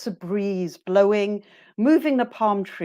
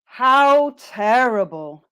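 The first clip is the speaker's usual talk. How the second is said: slow, louder "How terrible", little lift; deliberate, sympathetic drill of "How terrible"; negative reaction intonation; 5 dB louder, slower than usual. Shown as a demonstration. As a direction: stretch "How" and "terrible" without swooping up. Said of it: "their voice stays neutral".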